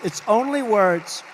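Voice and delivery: punched out loud, stress on only; emphatic. Real, not acted. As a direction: hammer home It's only words. Repeated slogan, first take louder.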